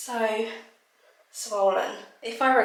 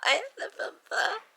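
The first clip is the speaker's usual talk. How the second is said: crying; 9 semitones higher than usual. Real, not acted. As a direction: let the words crack into tears. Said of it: "I feel very emotional".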